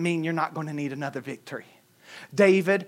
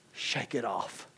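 tearful; 8 semitones lower, 13 dB quieter, slower than usual. Retold or imitated. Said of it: "And crying, she began to say".

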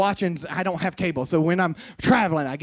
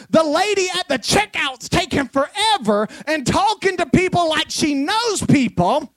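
raised, louder pulpit preaching with climbing pitch; preaching at full force; 9 semitones higher, 4 dB louder than usual. Acted. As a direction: preach it out, building fervour to the congregation. Pastor preaching to congregation.

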